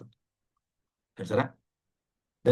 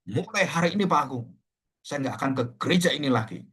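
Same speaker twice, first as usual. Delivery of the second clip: mock indignant declaration; retold angry outburst; 4 semitones higher than usual. Church elder tells the pastor he is quitting church, mildly angry. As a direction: voice an aggrieved elder, mildly heated. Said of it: "marah-marah. Dan dia mengatakan".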